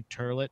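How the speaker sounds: "turlet" with an er in place of oi; toilet said "turlet". Shown as a demonstration. Comedian showing a pet mispronunciation, toilet as "turlet". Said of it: "making fun of saying stuff".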